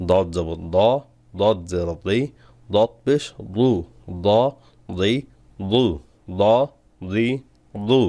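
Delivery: দ দি দু said thick from the tongue root; heavy dad. Shown as a demonstration. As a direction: fatten দদ, not like দাল. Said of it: "দদ মোটা করলেই". (মোটা করে দদ উচ্চারণ)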